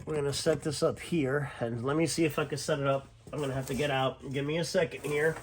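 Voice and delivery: talking while lying under a car; strained, lying on your back under a car. Real, not acted. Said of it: "'cause I'm under the car".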